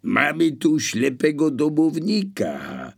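high, loud answer to someone downstairs; shouting back. A narrator's reading. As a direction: holler it down to your accomplice. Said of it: "odkrzyknął gość z pokoju Adama".

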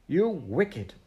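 high, loud, outraged scolding; angry cry. A narrator's reading. Missus Biddle turns on the intruding children, angry cry. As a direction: burst out indignantly at the intruders. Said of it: "she cried".

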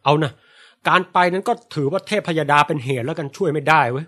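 a touch of royal reproach; stern, slowed-down scolding; scolding king. Retold or imitated. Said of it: "ตำหนิก่อน". (พระราชาตำหนิเบาๆ)

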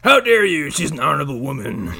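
hammed-up offence; mock indignation. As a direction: play affronted defender of a lady. Mock defence of character.

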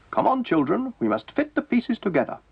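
a hint of brisk encouragement; lady magician. A narrator's reading. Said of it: "she said".

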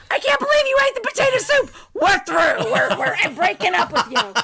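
high, rushed mock outrage easing down; hammed-up whiny breakup tantrum; whiny TV character. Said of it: "It's just a whiny scene".

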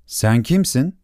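curious little prince question; prince asking. Acted. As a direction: ask the echo who it is. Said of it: "diye sordu Küçük Prens".

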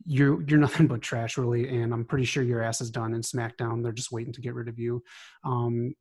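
heated, scornful callout promo; angry wrestling promo. Real, not acted. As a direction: cut a furious heel-style promo on them. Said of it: "I just wanted to cut a promo".

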